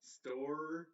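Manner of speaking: "Storage" split as STOR, pause, IJ; broken into syllables. Shown as a demonstration. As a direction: sound out "Storage" in two separate pieces. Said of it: "pronounced as".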